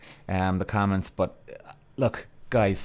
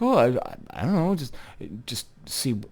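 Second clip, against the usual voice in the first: playing innocent. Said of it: "Playing so innocent".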